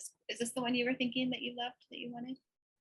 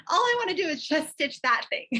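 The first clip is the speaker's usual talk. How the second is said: high, loud, smitten gushing; gushing excitement; 8 semitones higher, 9 dB louder than usual. Retold or imitated. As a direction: swoon over another designer. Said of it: "I'm like".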